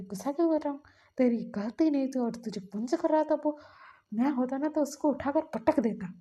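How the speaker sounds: imitating an angry elder brother. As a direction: retell the rant with some heat. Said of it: "बोल रहा था गुस्से में".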